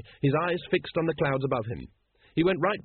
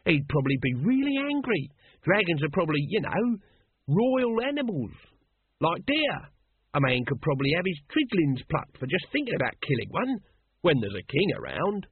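lightly voiced Nobby, pitched up; 5 semitones higher than usual. Nobby musing to Colon about dragons as royal animals, lightly voiced. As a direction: speculate in a lightly played character voice.

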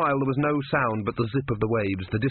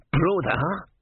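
raised calling voice; shouting tortoise; 7 semitones higher than usual. A narrator's reading. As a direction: call out sharply. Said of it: "shouted the tortoise".

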